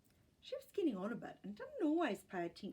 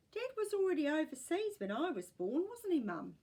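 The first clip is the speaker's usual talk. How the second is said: put-on older woman voice; 7 semitones higher, 6 dB louder than usual. A narrator's reading. Nana voiced in story.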